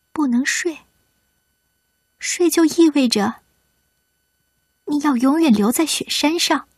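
earnest pleading. Acted. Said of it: "女孩就这样不停地说着".

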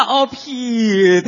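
put-on very slow Sichuan-accented 皮特. Partner echoing the Sichuan name call, Sichuan accent. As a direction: echo 皮特 lazily in Sichuan dialect. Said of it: "四川话".

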